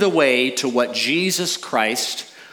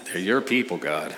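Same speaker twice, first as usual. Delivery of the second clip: laughing aside; 5 semitones lower, 5 dB quieter than usual. Real, not acted. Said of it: "I say that to God all the time".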